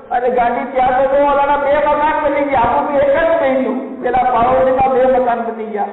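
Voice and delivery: high-pitched wailing lament; crying lament. Acted. Jealous husband wails to his wife, crying. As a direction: wail over the neighbour's luck. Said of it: "તમે રડો છો?".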